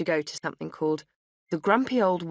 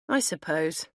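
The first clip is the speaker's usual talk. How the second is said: half-hearted; slower than usual. A narrator's reading. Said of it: "I replied half-heartedly".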